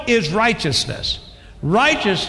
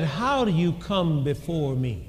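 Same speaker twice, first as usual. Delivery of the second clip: voice from God; 3 semitones lower, 6 dB quieter than usual. Retold or imitated. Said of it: "you know how you hear that voice".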